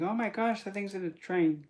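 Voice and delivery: mildly hammed-up alarmed thought; imitated alarm. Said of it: "they think".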